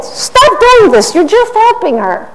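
mock whine at his staff; exasperated mayor. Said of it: "and he said".

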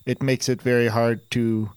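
flat machine voice, each word level; a robot that was built without inflection; robot with no vocal modulation. Acted. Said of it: "with any vocal modulation".

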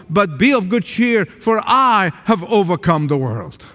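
a hint of God's steady promise; lightly voiced divine reassurance; preacher voicing God's promises to the congregation, steady; voice of the Lord. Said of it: "hear the voice of the Lord saying".

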